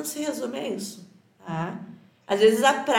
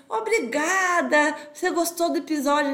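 friendly thanks, acted; 3 semitones higher than usual. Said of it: "a gente vai lá e diz".

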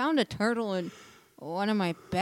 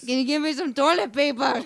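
higher, fast, mock-girly voice; a man doing a woman's voice; 4 semitones higher, 7 dB louder, faster than usual. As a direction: fake a woman begging for help. Prank call, faked caller voice.

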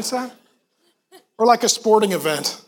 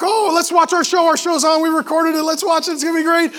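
eager wife, a bit higher; imitating wife; 4 semitones higher than usual. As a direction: mimic his wife's cheerful eagerness. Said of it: "and Grace is like".

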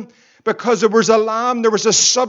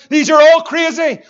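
louder and higher scoff; mock scoffing shout; 4 semitones higher, 5 dB louder than usual. Preacher voices the scoffers calling believers crazy, a mock shout. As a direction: throw out the mockers' jeer. Mocking what doubters say.

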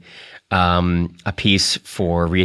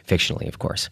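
whispered aside; 7 dB quieter, faster than usual. Real, not acted. Quiet aside after story.

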